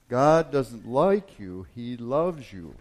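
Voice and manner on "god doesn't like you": forceful read sermon; preaching. Acted. Pastor reads a devotional to his congregation, preaching with force.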